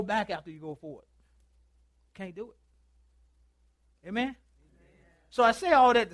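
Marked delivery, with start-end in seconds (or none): 2.1-4.1 slow hushed whisper; drawn-out breathy whisper. Real, not acted. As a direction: let it fall to a slow whisper. Hushed aside after a sermon point.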